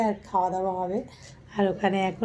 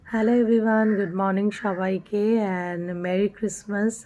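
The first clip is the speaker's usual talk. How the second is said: louder, lively morning hello; bright greeting; 3 dB louder than usual. Real, not acted. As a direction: greet your viewers with energy on hello everyone. Cheerful morning greeting after night.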